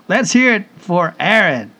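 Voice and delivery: loud rallying call to the crowd; cheer shout. Acted. Host calls out a cheer.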